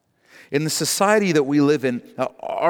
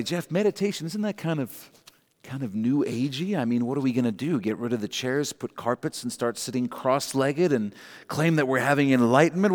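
soft, doubtful mock objection, softer; sceptical listener; 4 dB quieter than usual. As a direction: play the doubting churchgoer, hushed. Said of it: "And you might say".

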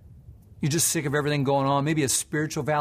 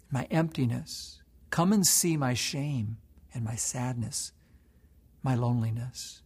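prayer. Acted. Pastor voices a sinner inviting the Lord to see, earnest prayer.

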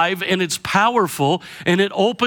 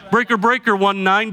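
CB radio talk; 3 semitones higher than usual. Retold or imitated. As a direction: call it out like a trucker on the CB. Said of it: "in nineteen seventies C B vernacular".

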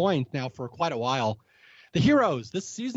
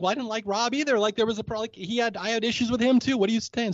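defensive Jerry; 5 semitones higher than usual. Retold or imitated. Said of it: "she's like".

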